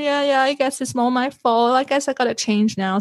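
mildly mocking your own self-blame; lightly acted downward spiral of self-blame; self-pitying spiral. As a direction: run it on like a self-pitying mumble to yourself. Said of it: "little spiral on my own".

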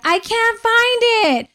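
put-on high, slow whining child; slow high mock whine; whiny kid. Kids whining, voiced by parent.

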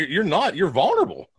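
nervous crack in the voice. Real, not acted. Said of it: "hear my voice crack".

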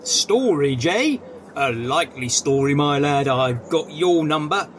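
overacted policeman voice; hammy stage actor. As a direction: ham up the bobby. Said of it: "you overacting fool".

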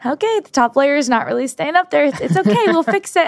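high, strained fake-calm voice; forced calm. Retelling fixing the falling cake, high and strained calm. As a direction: sound calm while barely holding it together. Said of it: "I was, like, keeping my calm".

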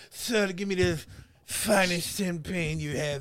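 lightly put-on French accent, drawn out; mock French accent. Retelling a man ordering wine, in mock French accent. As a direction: order like a would-be Frenchman, slowly. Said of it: "he tried to say it in French".

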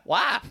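Kentucky "why"; softened why. Shown as a demonstration. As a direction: say "Why?" high with a Kentucky twang, laughing.

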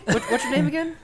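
shy dwarf Jimmy talking to Nomo; timid dwarf Jimmy. Acted.

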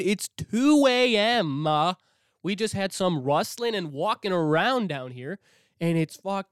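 panicked outburst. Retold or imitated. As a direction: blurt it out in a panic. Panicked reply to grandma at night.

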